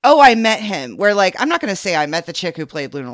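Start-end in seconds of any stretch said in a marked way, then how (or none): 0.0-1.0 loud, higher fan exclamation; thrilled fan. Acted. Voicing how a fan feels after meeting a star, thrilled. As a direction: proudly exclaim it, loud and lifted. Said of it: "experience where you feel like".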